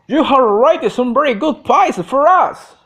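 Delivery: touch of keen Scottish in the praise; Scottish editor. A narrator's reading. Editor praising a reporter's pieces, mild Scottish voice. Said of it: "in his keen Scottish voice".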